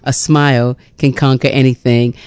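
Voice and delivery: measured, gentle poem recital; poem reading. Real, not acted. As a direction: read it slowly as a tribute poem. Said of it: "I wanna read Smile".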